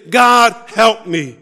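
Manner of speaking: slow earnest plea. Acted. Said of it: "You better say".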